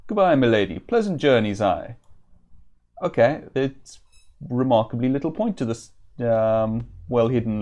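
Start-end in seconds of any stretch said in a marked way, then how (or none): 0.1-2.0 lilting, put-on vaguely Welsh woodsman; vaguely Welsh accent. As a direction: improvise a rough Welsh-ish country accent. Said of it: "I think it might be vaguely Welsh".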